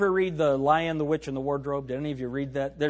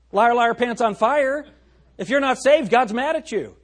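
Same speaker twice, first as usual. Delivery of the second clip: preaching rebuke; 7 semitones higher, 5 dB louder than usual. Acted. Pastor rebukes church sign.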